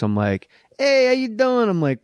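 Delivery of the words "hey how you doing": high, brash East Coast "hey how you doing"; East Coast tough guy. Retold or imitated. Actor retelling his audition, East Coast voice. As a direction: greet like a New York wiseguy. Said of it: "I'll make him East Coast".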